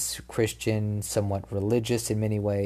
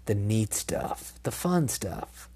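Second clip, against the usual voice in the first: mock fake-sincere tease; 5 dB quieter, slower than usual. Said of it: "No, I'm just kidding".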